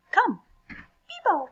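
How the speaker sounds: slow, high call; hippo calling. Acted.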